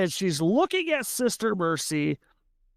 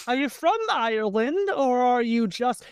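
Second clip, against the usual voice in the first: put-on higher-pitched English accent; 5 semitones higher than usual. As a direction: ask lightly in a lifted English accent. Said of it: "her English accent cuts through".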